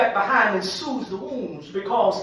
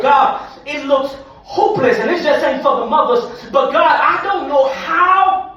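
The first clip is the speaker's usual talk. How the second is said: raised, preached cry to God; desperate plea; 2 semitones higher, 6 dB louder than usual. Acted. Believer crying out to God, desperate plea. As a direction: build to a loud, stretched last word. Voicing desperate prayer, loud.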